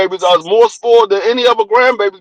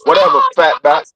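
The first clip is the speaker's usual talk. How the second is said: low, far-off dismissive retort; sassy grandson; 5 semitones lower than usual. Retold or imitated. Grandpa imitating grandson's repeated insult, low sass.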